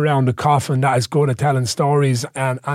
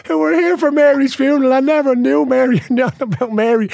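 pitched up and louder, building to the punchline; telling the funny funeral story, raised, louder excitement; excited; 9 semitones higher, 3 dB louder than usual. Real, not acted. Laughing climax of funeral story.

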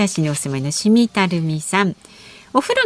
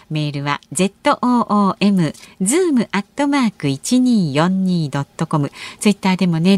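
radio announcement. Acted. Listener message announcement.

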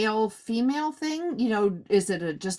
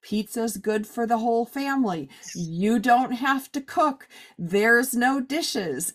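put-on kid's pitch. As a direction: lay out each point like a closing argument. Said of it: "he's like".

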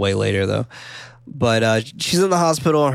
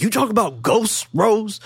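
high-pitched, scoffing disbelief; mock incredulity; 10 semitones higher than usual. Podcaster playing the fiancé doubting Rose, mockingly incredulous. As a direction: imitate a sceptic, pitched way up.

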